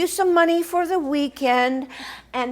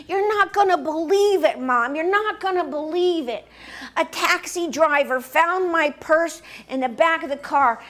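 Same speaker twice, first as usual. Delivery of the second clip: excited daughter; 4 semitones higher, 3 dB louder than usual. Retold or imitated. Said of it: "She's crying and she's laughing now".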